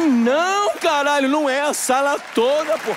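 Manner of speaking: a mock-alarmed outburst; alarmed protest. (protesto alarmado, mais agudo)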